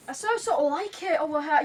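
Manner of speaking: light British accent demo. Shown as a demonstration. Girl showing off her British accent for the host. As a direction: try the line in British English. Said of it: "the British one".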